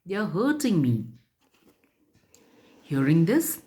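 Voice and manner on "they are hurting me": higher retold cry of the hurt tree; tree crying for help. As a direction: lightly voice the tree's plea. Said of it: "cried out in pain and shouted".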